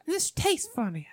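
high mock complaint; old lady customer. Old lady returning her burger, high put-on voice. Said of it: "This old lady comes up".

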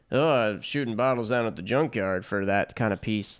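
a hint of the comic's low undermining voice; Thomas Hayden Church impression. Host imitating the actor undercutting his brother's serious speech, lightly voiced impression. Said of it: "That was a good impression".

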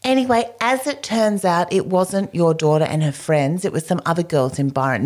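high offhand voice, imitated; imitating the owner's careless non-apology; mock dismissive shop owner. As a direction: toss it off airily, mocking her.

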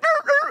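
very high, loud startled-dog noise; imitated dog yelp. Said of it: "dog's like".

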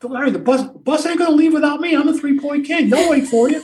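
smug. Retold or imitated. Larry replying smugly.

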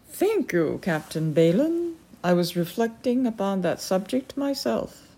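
lightly voiced proud lady; a touch of cool aristocratic dismissal; haughty falcon lady. The Peregrine speaks.

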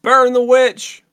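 loud, slow hammed-up mob cry; angry mob leader. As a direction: bellow it like a witch-hunt mob. Mock mob accusing a witch.

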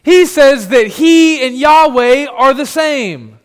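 loud, slow, laughing scorn; mocking jeer. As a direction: sneer it at the crowd. Mocking crowd jeers.

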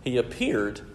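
"appeared" set apart with emphasis; stress on APPEARED. Real, not acted. Preacher repeating the key word for listeners, stressing "appeared". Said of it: "and stress that word".

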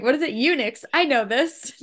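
imitated movie girl. Co-host quoting Jurassic Park girl, light girlish imitation. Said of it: "I just love her being like".

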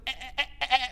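put-on baby fussing. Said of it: "this kind of rev up to crying".

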